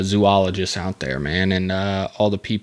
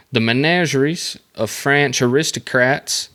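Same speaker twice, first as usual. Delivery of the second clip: menageries in a twangy redneck accent; 4 semitones higher than usual. Shown as a demonstration. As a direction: menageries said the honky way. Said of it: "I sounded so frickin' redneck right there".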